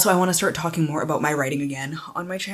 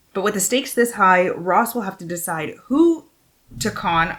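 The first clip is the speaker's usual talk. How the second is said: lifted, animated back-cover reading; expressive book-jacket narration; dramatic blurb read; 4 semitones higher than usual. Real, not acted. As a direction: read the blurb out with storyteller emphasis.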